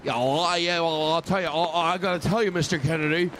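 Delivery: mock presidential Kennedy, lightly done; lightly voiced JFK. Comic doing a lightly voiced Kennedy for the crowd. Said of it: "I'll sound like J F Kennedy right now".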